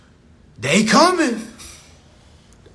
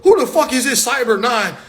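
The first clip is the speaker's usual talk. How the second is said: higher, louder, laughing disbelief; baffled dad outburst; 6 semitones higher, 4 dB louder than usual. Retold or imitated. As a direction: blurt it out like an old-school dad who can't believe it. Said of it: "I'm like".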